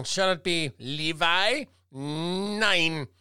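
mock German, slow and drawn out; hammy fake German voice; fake German accent. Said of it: "That's not real German".

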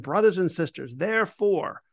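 therefore rising high at the end; emphatic vocative. Shown as a demonstration. Teacher showing Paul's emphatic Greek, lifting "therefore" high. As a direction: stress "Brothers and sisters, therefore" with the last word lifted high. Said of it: "it's an emphatic statement".

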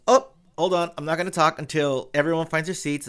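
a hint of a joking emcee; mild playful host. Director teasing latecomers in the theater, playful host. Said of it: "and he goes".

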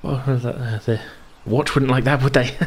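put-on high, flustered boy voice; stammer, overwhelmed and awed; timid young Nairn. Young Nairn greeting the miss, flustered.

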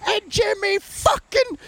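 high, drawn-out wheezy cursing; slow, high-pitched army-story swearing; dad cursing. Retold or imitated. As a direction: imitate a dad cursing through his laughter. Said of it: "His dad's really good at cursing".

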